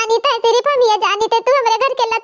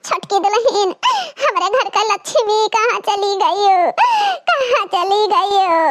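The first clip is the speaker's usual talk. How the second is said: crying call, slowing at the end; tearful calling. Acted. Mother-in-law calling for her missing daughter-in-law, tearful. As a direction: wail for her.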